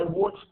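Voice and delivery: "watched" with ED said as T; one-syllable "watched" ending in T; final T sound. Shown as a demonstration. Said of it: "we pronounce it like T".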